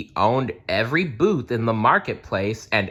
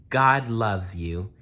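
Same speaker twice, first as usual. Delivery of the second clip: slow, gentle blessing to the poor; kind blessing; slower than usual. Acted. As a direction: bless each person slowly and kindly. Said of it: "she said".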